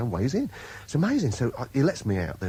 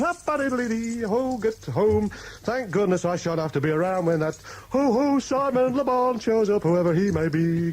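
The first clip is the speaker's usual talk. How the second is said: high, slow hammed-up toff voice; posh oblivious gent; 9 semitones higher than usual. Pretending to be a random gent walking past the fans, hammed-up high toff voice. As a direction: play a silly upper-class twit. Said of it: "kind of thing".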